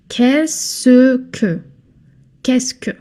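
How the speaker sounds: "qu'est-ce que" run together as one word, kess-kuh. Shown as a demonstration. Teacher modelling "qu'est-ce que" as one word. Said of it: "they are pronounced".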